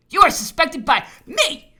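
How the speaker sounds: high, loud, angry accusation; furious accusation. Acted. Governor telling the officer he is suspected, loudly furious. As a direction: hurl the suspicion at full voice.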